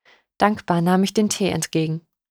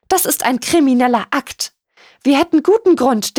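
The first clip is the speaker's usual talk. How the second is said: high-pitched, indignant outrage; scandalised, piercing reproach; shrill; 7 semitones higher, 3 dB louder than usual. A narrator's reading. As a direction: rail at her in a shrill lady's voice. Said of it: "Lady Angelas Stimme war schrill".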